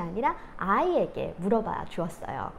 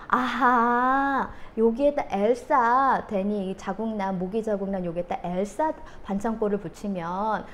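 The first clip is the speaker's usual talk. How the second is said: reassuring mom. Retold or imitated. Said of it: "이렇게 이야기를 해줬어요".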